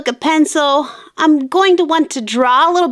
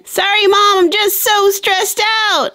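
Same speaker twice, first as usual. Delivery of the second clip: tag; 5 semitones higher than usual. Acted. Stressed girl whining to mom.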